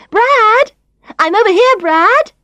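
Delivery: high, loud call across a busy restaurant; Tanya calling Brad from across the restaurant; calling across the room. Acted. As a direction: shout his name to get his attention.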